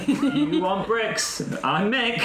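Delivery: giggling through the words while answering the phone; can barely get the words out for laughing; high, breathy laughter over the line. Real, not acted.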